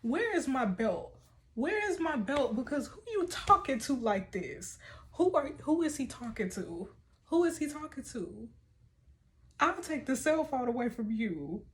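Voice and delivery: half-joking furious mom hunting for the belt; hammed-up angry mom; mock outrage. Real, not acted. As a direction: act like you're grabbing the belt. Mock-furious mom after rude text.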